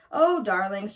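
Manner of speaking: mama bear lightly amused with her family; understated fond chuckle; chuckling fondly. Acted. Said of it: "chuckled Mama Honey Bear".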